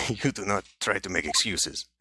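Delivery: put-on improvised Russian accent after a laugh. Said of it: "this is not the accent to take".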